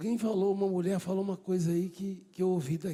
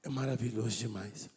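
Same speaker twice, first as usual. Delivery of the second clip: hushed awe; 9 semitones lower, 7 dB quieter than usual. Acted. Quiet awed quoting of Davi.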